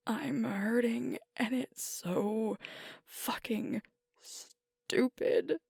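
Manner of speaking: slow, halting and hurt; pained confession. Acted. Alpha admitting pain over losing their beta, slow and pained. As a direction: drag the words out through the hurt.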